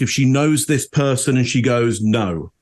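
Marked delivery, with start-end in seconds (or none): 2.0-2.5 "No." with a firm downward tune; a flat, final "No."; definitive falling no. Retold or imitated. Suspect answers the police with a firm falling no. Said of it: "A downward intonation on that".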